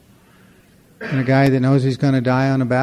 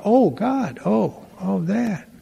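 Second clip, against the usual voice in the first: mock dismay; 7 semitones higher, slower than usual. Mock dismay at God answer.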